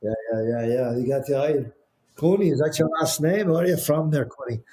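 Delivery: put-on lightly done Irish New York accent, friendly greeting; a hint of an Irish New Yorker's chatty greeting. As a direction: loose Irish New York lilt, asking about home. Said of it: "Irish New York accent".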